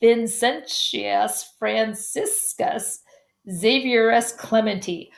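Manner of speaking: slow, deliberate Italian name; slow careful reading. Real, not acted. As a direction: read the long name very slowly. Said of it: "I'm messing up his name".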